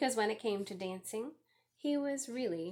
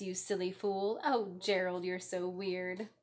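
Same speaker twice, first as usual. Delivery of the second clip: sneering. Acted. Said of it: "the animals all sneered".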